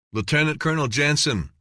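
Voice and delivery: a soldier hails Jensen, shouting; shouted. A narrator's reading. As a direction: bark his rank out to get his attention. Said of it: "one of the men shouted".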